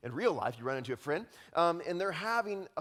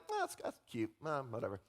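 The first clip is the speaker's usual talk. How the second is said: mock bored shrug; 4 semitones lower, 5 dB quieter, faster than usual. Preacher mimics people shrugging at kindness, mock boredom. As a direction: brush it off as merely cute. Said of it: "people are like".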